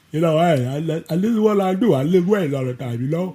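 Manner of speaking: lightly voiced halting strongman; a hint of a slurred lifter; Lou Ferrigno voice. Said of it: "do a Lou Ferrigno voice".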